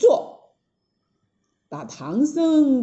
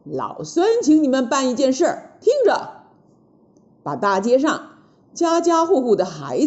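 brisk bossy monkey giving commands; Monkey King's orders; 3 dB louder than usual. Acted. Monkey King orders the two gods, brisk and bossy.

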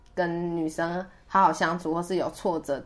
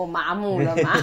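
laughing. Real, not acted. Laughing at own numbness.

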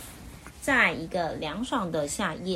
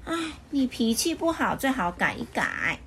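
kind advice; 5 semitones higher than usual. Acted. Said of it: "好心地劝他".

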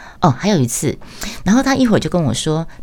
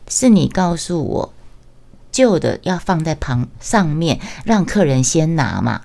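ordinary talk, nothing marked

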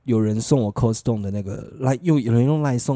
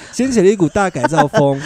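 laughing; 4 semitones higher, 5 dB louder than usual. Real, not acted.

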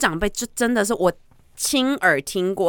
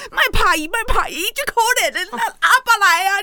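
put-on higher, near-tearful old grandpa calling out; pleading grandpa; 12 semitones higher, 4 dB louder than usual. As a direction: call the child's name, half crying. Grandpa calling the kidnapped child. (模仿阿公带着哭腔呼唤)

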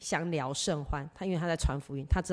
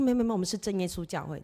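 quick correction; 4 semitones higher, much faster than usual. Retold or imitated. Retold hurried correction.

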